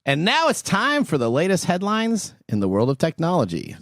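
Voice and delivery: punchy, lively headline delivery; news anchor read. Acted. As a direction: present the tech news like an anchor.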